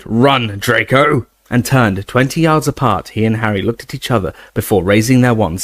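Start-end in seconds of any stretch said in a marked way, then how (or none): 0.0-1.3 shouted order. Acted. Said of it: "Snape shouted".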